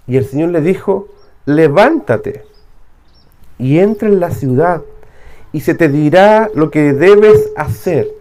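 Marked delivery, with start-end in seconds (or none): 1.5-8.1 firm command. Acted. The Lord commands Paul.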